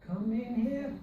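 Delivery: "here" lifted at the end; rising test. Shown as a demonstration. Teacher testing a rise on the phrase. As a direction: try it with "here" going up. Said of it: "I don't think it really does go up".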